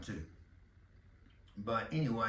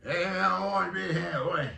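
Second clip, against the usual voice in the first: loud, higher, garbled coach voice; tongueless Waterboy coach; 4 semitones higher, 6 dB louder than usual. Acted. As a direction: shout it as if you had no tongue. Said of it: "tongueless coach on the water boy".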